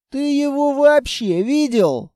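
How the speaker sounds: indignant outburst in defence of his rifle. A narrator's reading. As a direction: protest like he's been insulted. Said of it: "возмутился Текс".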